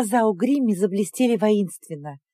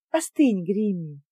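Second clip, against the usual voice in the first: peaceable; 3 dB quieter, slower than usual. Acted. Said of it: "миролюбиво проговорила я".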